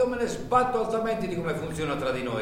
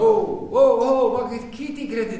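higher, louder indignant outburst; outraged shout; 7 semitones higher, 7 dB louder, slower than usual. Acted. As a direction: bark back at the threat. Boss reacts to threat.

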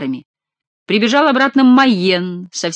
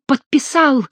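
howled; 8 semitones higher, slower than usual. A narrator's reading. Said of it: "взвыл Горанфло".

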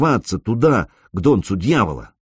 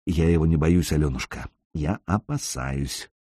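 whispered into her ear; 5 semitones lower, 6 dB quieter than usual. A narrator's reading. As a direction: hush it right at her ear. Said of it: "шепнул на ушко".

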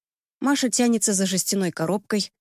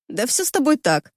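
сквозь смех; 4 semitones higher than usual. Acted. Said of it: "выговаривает сквозь смех".

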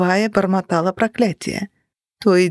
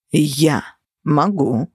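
put-on French accent; 4 semitones lower, much slower than usual. A narrator's reading. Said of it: "говорил с французским акцентом".

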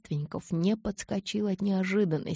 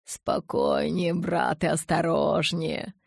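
calm warning; slower than usual. Acted. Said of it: "напомнил Ара".

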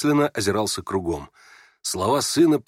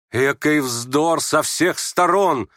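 raised, drawn-out indignation; indignant retort; 5 semitones higher, 3 dB louder, much slower than usual. Acted. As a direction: cut them off indignantly, leaning on each word. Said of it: "отрезала в негодовании Варя". (негодующая отповедь)

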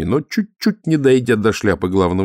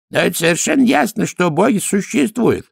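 insistent priest; 11 semitones higher than usual. A narrator's reading. Priest tells Dorfl that gods exist, insistent. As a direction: insist on it in a high voice.

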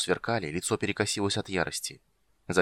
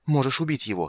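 higher-pitched, indignant retort; angry challenge; 6 semitones higher than usual. A narrator's reading. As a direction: throw it at him in anger. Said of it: "сказала она гневно". (гневный вызов повышенным тоном)

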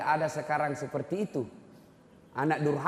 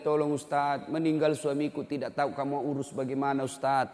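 normal talking voice

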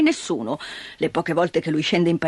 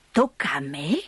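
lower, muttered disbelief; gruff old man; 7 semitones lower, 3 dB quieter than usual. Acted.

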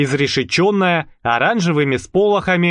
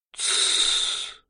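soft voiceless shush; shushing hiss; 9 dB quieter than usual. Acted. Man with finger to lips silencing Marusya, shush. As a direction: hush her sharply.

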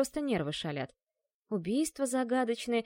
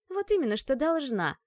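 отрезала; 5 semitones higher than usual. Acted. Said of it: "отрезала девушка".

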